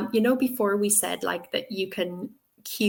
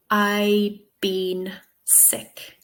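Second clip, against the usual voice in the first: student's mistake; much slower than usual. Shown as a demonstration. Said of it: "if they say something like".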